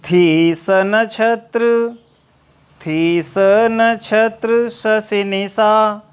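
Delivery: slow recital of थी स नक्षत्र शशि निशा, each word stretched; poem recitation. Acted. Recites verse before explaining it. (धीमे स्वर में थी स नक्षत्र शशि निशा का काव्य पाठ)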